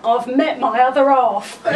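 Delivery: a light, laughing imitation of a Cockney accent. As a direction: quote her in a hint of Cockney, amused. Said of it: "in a Cockney accent".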